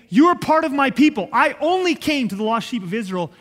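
high, punchy opening that eases slightly; emphatic declaration. Retold or imitated. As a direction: proclaim it forcefully, voicing Jesus to the outcasts. Preacher voices Jesus' emphatic declaration.

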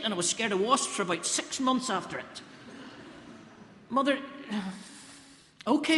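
put-on flustered young husband, stammering; a bumbling new father breaking news; nervous Joseph on the phone.

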